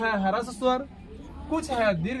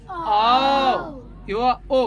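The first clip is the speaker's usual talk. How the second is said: 1 teacher calling out; 5 dB louder, much slower than usual. Real, not acted. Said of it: "teacher calls out vowels loudly".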